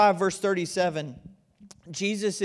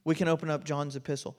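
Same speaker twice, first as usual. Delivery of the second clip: "We can open up John's epistle" repeated fast and softer; quick soft echo; 3 semitones lower, 5 dB quieter, faster than usual. Shown as a demonstration. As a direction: echo it quickly under your breath. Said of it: "repeats the line".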